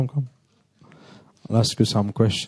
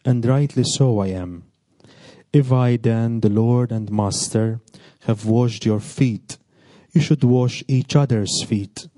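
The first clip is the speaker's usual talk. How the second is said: measured, solemn scripture reading; reading the gospel at Mass, measured and solemn; 2 semitones lower than usual. Acted. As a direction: proclaim the text clearly to the congregation. Priest reads the gospel aloud.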